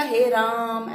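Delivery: हे Ram with a long stretched हे; drawn-out Hey Ram. Shown as a demonstration. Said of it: "ऐसा बोला था". (हे राम को लंबा करके)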